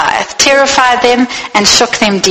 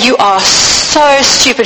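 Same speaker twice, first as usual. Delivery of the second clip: scornful taunt; 3 semitones higher, slower than usual. Acted.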